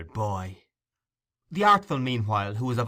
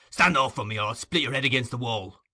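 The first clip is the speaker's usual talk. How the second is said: angry threat; 4 dB louder than usual. Acted. Sikes threatening Nancy.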